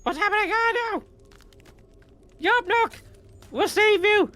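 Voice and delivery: high, loud goblin cries of alarm; panicked goblin. Acted. Goblins crying out as their leader is seized.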